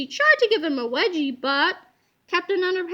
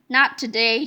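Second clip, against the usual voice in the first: mild snap; 6 semitones lower than usual. Acted. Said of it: "snapped Miss Ribble".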